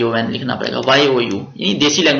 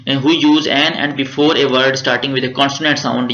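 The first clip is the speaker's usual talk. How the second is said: the rule read out very slowly; slow dictation; much slower than usual. Shown as a demonstration. Teacher dictates the grammar rule to students, slowly. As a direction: read each word out for the class to copy. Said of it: "teacher reads rule aloud".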